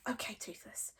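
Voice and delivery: breathy unvoiced whisper. A narrator's reading. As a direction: whisper into the dragon's ear. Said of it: "he whispered into the little dragon's ear".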